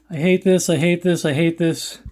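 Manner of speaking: fading frustrated whine; angry crying. Real, not acted. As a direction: repeat it, winding down upset. Repeated after hurting himself.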